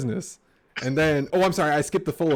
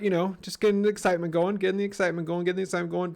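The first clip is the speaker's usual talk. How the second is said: higher, rising with excitement; building excitement; 6 semitones higher, faster than usual. Shown as a demonstration. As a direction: build the hype each time. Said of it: "rising excitement on chart, repeated".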